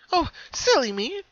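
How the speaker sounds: high, amused pony voice; high amused cartoon pony; light laugh. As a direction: chuckle at herself. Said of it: "she laughed".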